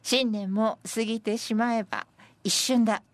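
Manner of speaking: measured verse reading; senryu recitation. Acted. Presenter reading senryu on fleeting New Year, measured recitation. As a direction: give the poem clear, separate phrases.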